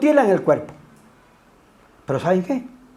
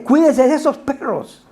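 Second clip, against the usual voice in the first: each "Cuídense" pressed at the start, a little raised; emphatic warning; 5 semitones higher than usual. Retold or imitated. Preacher echoing Pablo's warning about false teachers, pressing. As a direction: hammer the repeated warning three times.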